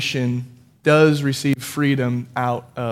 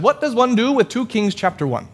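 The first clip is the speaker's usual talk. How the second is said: higher, lightly imitated Australian accent; 6 semitones higher than usual. Retelling a theologian's question to pastors, light Australian accent. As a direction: ask it wryly with an Australian twang. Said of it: "so he's a very thick Australian accent".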